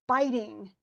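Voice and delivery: "biting" as BIT-ing, first syllable stressed; "biting" with a strong beat, then a weak one. Shown as a demonstration. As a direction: lean on the start of "biting". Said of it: "Even the very bottom".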